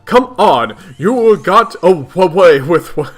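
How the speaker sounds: loud stuttered W's collapsing into laughter; cracking up mid-read. Acted. Reader acting a stuttering character's rant, losing it laughing. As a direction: push on loudly until laughter wins. Reading stuttered quirk, breaking up.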